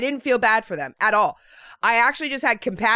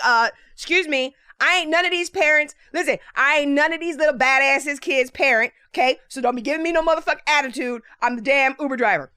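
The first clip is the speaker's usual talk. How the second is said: indignant inner retort with attitude; fed-up, mildly heated protest; imagined sassy comeback; 3 semitones higher than usual. Acted. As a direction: tell off the officer in your head. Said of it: "That's how I was feeling".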